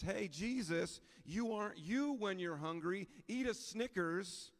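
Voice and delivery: hammed-up TV ad voice; mock Snickers ad. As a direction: pitch it like a candy-bar ad slogan. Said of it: "said to Jesus".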